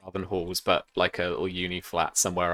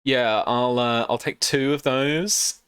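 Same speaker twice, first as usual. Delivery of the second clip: posh hipster voice; 3 semitones higher than usual. Acted. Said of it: "Posh hipster wanker voice".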